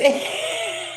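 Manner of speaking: a sudden high laughing yelp; real high laughing yelp; high burst of laughter. Real, not acted. Laughs at expired license story.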